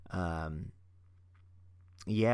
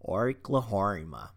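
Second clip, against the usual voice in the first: Australian accent; slower than usual. Shown as a demonstration. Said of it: "I'm horrible at the Australian accent".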